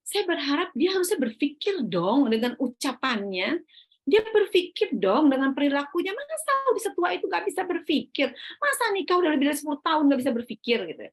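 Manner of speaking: mock-indignant complaint with rising pitch; acted exasperation. Wife silently fuming at her husband, exasperated. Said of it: "kalau saya marah sama suami saya".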